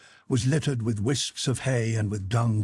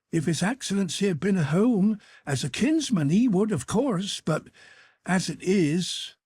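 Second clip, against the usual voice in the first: abashed and confused; 9 semitones higher than usual. A narrator's reading. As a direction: stumble over an awkward apology. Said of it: "grew abashed and confused".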